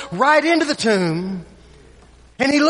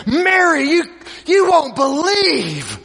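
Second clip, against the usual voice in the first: higher, eager call to Mary, slowed; excited news; 4 semitones higher than usual. Retold or imitated. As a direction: burst in with amazing news, a little hammed-up. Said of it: "and I'm sure he says".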